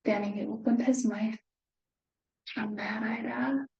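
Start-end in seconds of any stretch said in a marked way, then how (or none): 2.6-3.7 whispered build-up; hushed suspense. A narrator's reading. Narrator whispers to children before the lion's roar. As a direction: drop to a breathless whisper before the reveal. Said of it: "The lion's a wee bit afraid".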